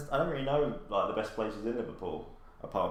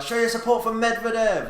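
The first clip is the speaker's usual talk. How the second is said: booming announcer yell, much higher and louder; hype man shout; 9 dB louder than usual. Retold or imitated. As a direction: fire up the crowd over the mic. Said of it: "they're like".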